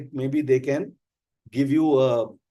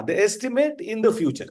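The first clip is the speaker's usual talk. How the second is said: "future" given extra weight at the end; teacher correcting student, weighting "future"; stress on future; 5 semitones higher than usual. Shown as a demonstration. Teacher explaining estimates, stressing "future". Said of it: "I'm emphasizing the word future".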